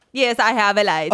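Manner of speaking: clumsy mock-Italian accent; badly faked Italian bellboy accent; attempted Italian accent. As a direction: try an Italian accent and miss. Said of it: "however the fuck you do an Italian accent".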